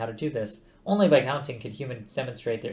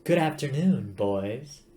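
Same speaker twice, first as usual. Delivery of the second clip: matriarchal computer; 3 dB louder, much slower than usual. Acted. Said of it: "I should do the voice differently".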